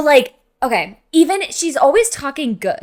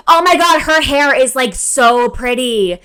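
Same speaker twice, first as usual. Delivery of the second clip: higher, louder gushing whisper-compliment; 3 semitones higher, 8 dB louder, slower than usual. Retold or imitated. Mimicking her friend's loud gushing about a stranger's hair, excited. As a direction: gush over her hair like a starstruck friend. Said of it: "she's like".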